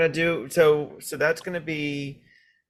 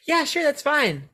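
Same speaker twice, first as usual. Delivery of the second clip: much higher, slow and sugary; high mock-sweet voice; 12 semitones higher than usual. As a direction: play up a sweet polite reply, slowly. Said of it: "and I said".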